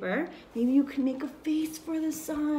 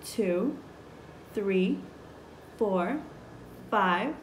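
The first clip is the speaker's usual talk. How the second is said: put-on teaching a child to count; much slower than usual. Shown as a demonstration. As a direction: count along, ending bright. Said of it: "Can you count with me?".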